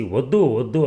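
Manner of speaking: a mild mock cry of no; panicked cry. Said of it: "గట్టిగా అరిచాడు". (భయంతో వద్దు వద్దు అని అరవడం)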